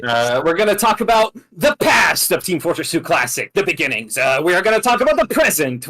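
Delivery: hyped YouTuber announcer. Pretend. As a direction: pump up the hype like a YouTuber. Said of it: "Stop, stop doing your YouTuber voice".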